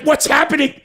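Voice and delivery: high panicked mock cry; half-hammed panicked squeal. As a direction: squeal it like a scared kid.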